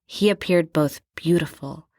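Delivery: reading the memoir quote with theatrical swells; dramatic book reading. Acted. Co-host reads the memoir passage aloud, hammed-up and dramatic. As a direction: read it like a swooning romance novel. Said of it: "she writes".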